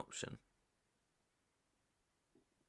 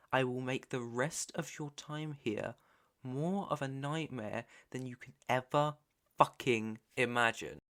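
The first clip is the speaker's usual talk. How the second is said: menacing threat. Acted. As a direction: threaten them, weighing each phrase. Captor threatens captive to keep quiet.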